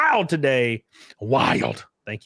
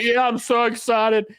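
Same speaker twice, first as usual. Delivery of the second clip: much higher put-on airhead voice; mock gullible fan; 10 semitones higher than usual. Mocking people excited about a fake poster, airhead voice. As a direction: ham up the clueless fans. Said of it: "And people are like".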